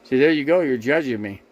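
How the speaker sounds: real annoyed accusation; accusing. Real, not acted. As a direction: catch him judging you. Accusing a critical viewer.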